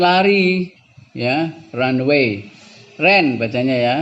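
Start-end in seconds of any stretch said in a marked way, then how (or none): 3.0-3.4 "ran" said as "ren"; A read as E. Shown as a demonstration. Teacher shows how the past of run reads, A read as E. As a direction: say "ran" with an E vowel. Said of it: "Kalau aslinya dibaca E".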